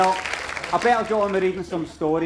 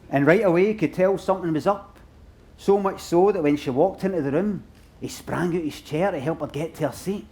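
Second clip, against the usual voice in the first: story narration. A narrator's reading. Reads own story aloud.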